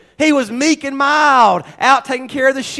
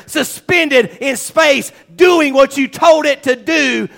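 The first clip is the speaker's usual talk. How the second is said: fervent prayer. Acted. Praising God in prayer.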